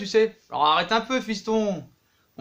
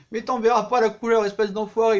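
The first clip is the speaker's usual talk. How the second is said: mock angry retort; 3 semitones higher, 3 dB louder than usual. Barça boss insults Neymar's agent.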